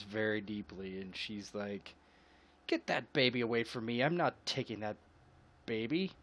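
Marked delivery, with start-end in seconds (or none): 2.7-6.1 fast, dismissive brush-off; brusque refusal. Acted. Matilda refusing to take the baby, fast and dismissive. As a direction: wave the baby away quickly.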